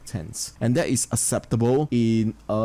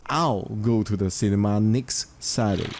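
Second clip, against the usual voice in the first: "I'll" set out strongly at the start; emphasize "I'll", as in me and nobody else; stress on I'll; 2 semitones lower than usual. Shown as a demonstration. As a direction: put the focus on "I'll", the rest lighter. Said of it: "The focus is on the author".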